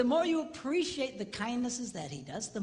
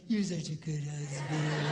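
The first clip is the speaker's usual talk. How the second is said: touched wife; 6 semitones lower, slower than usual. Retold or imitated. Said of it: "And she goes".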